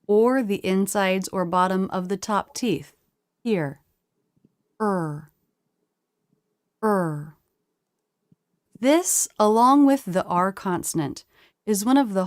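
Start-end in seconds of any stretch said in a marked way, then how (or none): 4.8-7.4 "Er" held with lips flared forward and tongue pulled back; er vowel demo. Shown as a demonstration. Teacher to learners, demonstrating the "Er" vowel. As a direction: model the "Er" sound cleanly. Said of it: "To make this sound".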